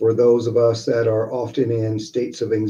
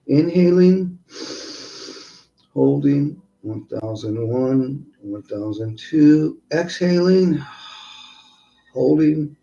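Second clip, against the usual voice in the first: guided meditation. Acted. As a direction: count them calmly through each breath. Leads breathing exercise.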